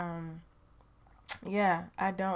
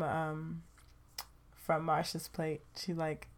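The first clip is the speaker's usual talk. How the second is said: ordinary delivery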